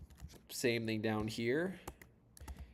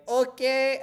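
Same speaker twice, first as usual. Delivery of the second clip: much higher and louder, slow mock call; concerned lady; 14 semitones higher, 11 dB louder than usual. Pretty Russian ladies calling to the swimmer, high mock shout. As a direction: call out high and drawn out from a boat. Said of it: "And they're like".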